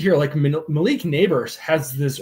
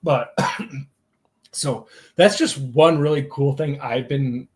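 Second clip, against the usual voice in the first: strained voice, something caught in the throat; choking. Real, not acted. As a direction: talk through a dry, catching throat. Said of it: "you're choking on something".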